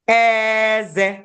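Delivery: "Eze" drawn out on an even middle tone; level-tone "teeth" pronunciation. Shown as a demonstration. Teacher showing the word for teeth, "Eze" long and even. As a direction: keep "Eze" level with a long first vowel. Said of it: "it has different sounds and different meaning".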